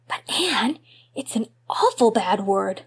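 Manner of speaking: put-on a shocked boy objecting; amazed little boy. Davy amazed.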